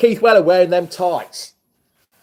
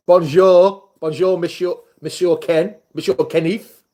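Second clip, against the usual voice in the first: French greeting. Real, not acted. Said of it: "trying to speak French to him".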